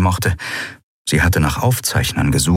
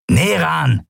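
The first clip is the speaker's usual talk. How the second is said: raised, high call; 8 semitones higher than usual. A narrator's reading. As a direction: call a comrade by name. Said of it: "rief Kratergesicht". (hoher Zuruf)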